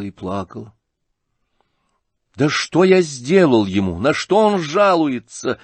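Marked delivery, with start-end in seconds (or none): 2.4-5.6 raised, forceful questioning; indignant cry. A narrator's reading. Ипполит protesting the general's complaint, indignant cry. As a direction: cry out the questions in higher pitch. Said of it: "вскричал Ипполит, скаля зубы".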